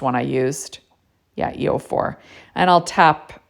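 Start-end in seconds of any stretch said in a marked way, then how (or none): 1.4-2.2 whispered aside to herself; whispering. Real, not acted. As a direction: breathe it, just a whisper. Confirms marker number to self.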